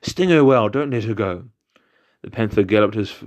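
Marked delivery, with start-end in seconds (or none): 0.0-1.4 louder gleeful jackal cry; sly yippy jackal. Acted. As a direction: cheer the bees on, gloating. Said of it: "jackal's voice was heard exclaiming".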